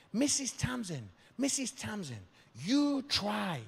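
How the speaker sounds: high, coaxing hostess voice; lightly voiced eager hostess; host's invitation. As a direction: coax him sweetly to try. Host urging him to try eyeballs.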